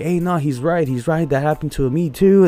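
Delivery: retold voices piping up in support; animated agreement. Other drivers back him up at the port, animated agreement.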